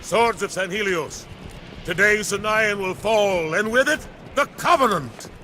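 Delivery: rallying speech. Acted. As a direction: lift the soldiers for the attack. Arbiter rallying his fleet.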